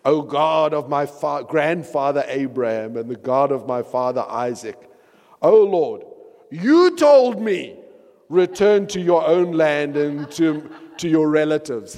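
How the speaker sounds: heavy emphasis on "you"; emphatic prayer reading. Shown as a demonstration. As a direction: lean hard on "you told me". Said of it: "I'm putting the emphasis on".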